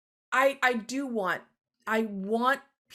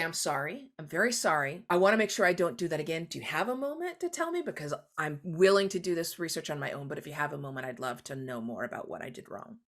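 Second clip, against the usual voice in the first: a modeled humble apology; sincere apology; 3 semitones lower than usual. Shown as a demonstration. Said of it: "You say".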